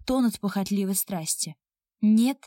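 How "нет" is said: a loud, final "no"; curt cutoff. Acted. Man refusing her flatly, loud and cutting. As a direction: slam the door on her with one word. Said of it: "как отрезал мужчина".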